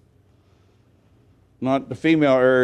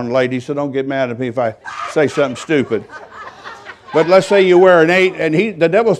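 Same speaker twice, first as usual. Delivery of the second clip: laughing. Real, not acted. Teasing aside to the ladies.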